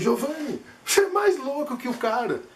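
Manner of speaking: a hint of a joking colleague; nurse's teasing. Nurse teases the speaker.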